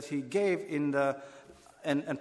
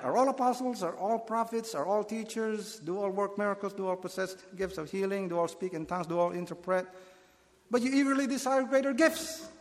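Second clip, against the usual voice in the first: higher, with the questions dropping away, then a high sharp But; exasperated rebuke, building to the But; 6 semitones higher, faster than usual. Shown as a demonstration. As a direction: read it like a fed-up teacher listing things. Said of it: "an exasperated tone".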